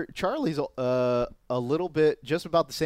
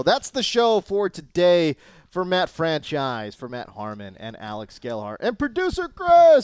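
show sign-off announcer; 4 dB louder than usual. Real, not acted. Show sign-off roll call.

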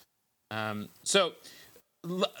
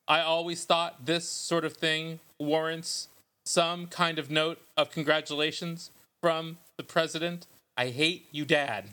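poet voice. Pretend. Host reads fake poems to co-hosts, mock poet voice. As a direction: intone it like a self-serious poet, pausing between phrases. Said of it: "Let me get my poet voice ready".

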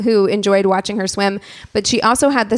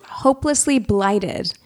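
mock prim quote.

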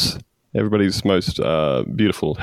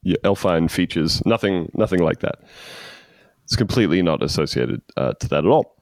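usual speaking voice

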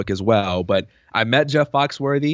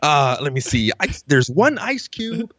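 playing dumb; 3 semitones higher, slower than usual. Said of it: "was like".

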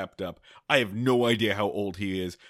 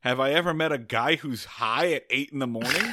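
laughing inner thought; 3 semitones higher, 4 dB louder than usual. Retold or imitated. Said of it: "And I think".

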